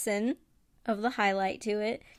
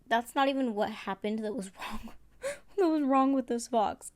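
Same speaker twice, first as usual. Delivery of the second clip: laughing through words. Real, not acted. Laughing at her botched fox.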